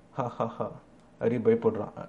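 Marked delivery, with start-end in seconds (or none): 0.1-0.7 soft, measured villain chuckle; a quiet knowing laugh at the boy's father; mock laugh. Interviewer laughs quietly at the nervous candidate. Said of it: "திருப்பியும் சிரிக்கிறாரு".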